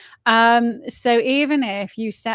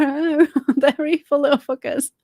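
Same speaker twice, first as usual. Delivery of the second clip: laughing mock outrage; 5 semitones higher, 4 dB louder than usual. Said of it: "And I was like".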